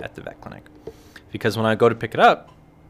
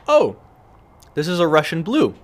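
much higher, louder surprised gasp; delighted discovery; 6 semitones higher, 4 dB louder than usual. Retold or imitated. Woman by him recognizing the breed in a high surprised voice.

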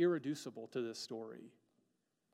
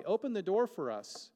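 higher, louder plea through a shut door; pleading call; 6 semitones higher, 6 dB louder than usual. Pretend. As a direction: call out begging to be let in. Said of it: "will knock and say".

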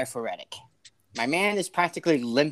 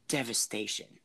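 very soft, lower retold whisper; imitated sincere whisper; 4 semitones lower, 10 dB quieter than usual. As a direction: hush the word right down, with sincere purpose. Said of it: "he whispered with no snark".

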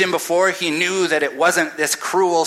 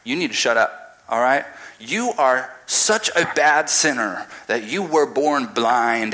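haughty scolding, rising higher; indignant Pharisees throwing him out; 3 semitones higher than usual. Retold or imitated. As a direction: look down your nose and scold. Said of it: "indignant high horses".

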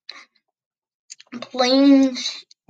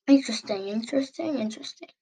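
fading to a murmur; 5 dB quieter, faster than usual. Real, not acted. Musing, repeated and fading.

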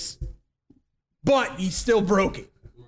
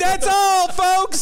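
raised Looney Tunes sign-off; cartoon sign-off; 8 semitones higher, 4 dB louder, much slower than usual.

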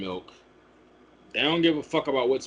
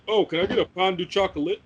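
mock French pretension; 5 semitones higher, faster than usual. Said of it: "this motherfucker ain't from France".

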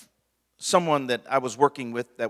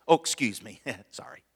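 laughing careless sorry; 5 semitones lower, 3 dB quieter than usual. Shown as a demonstration. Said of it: "that's all sorry does".

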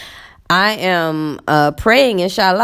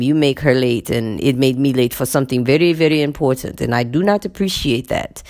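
lightly mimicked man, a lower voice; imitating male colleague; 4 semitones lower than usual. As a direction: retell his formal, measured reproach as him. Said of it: "And he says".

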